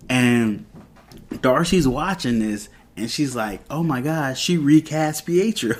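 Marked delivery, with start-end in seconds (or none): 3.7-5.7 high-pitched mock astonishment; amazed onlooker. Darcy watching the show sees the recast, amazed. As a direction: imitate a stunned viewer's gasping disbelief.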